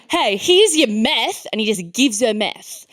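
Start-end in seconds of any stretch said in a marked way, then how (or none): 0.1-1.5 mock dealer. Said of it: "he's like".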